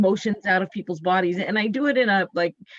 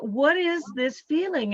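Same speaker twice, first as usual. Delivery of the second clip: puzzled question; 5 semitones higher than usual. Retold or imitated. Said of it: "and I went".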